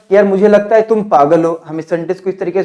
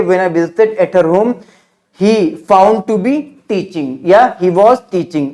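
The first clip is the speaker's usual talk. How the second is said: slow model sentence; much slower than usual. Shown as a demonstration. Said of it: "क्या बोलेंगे?".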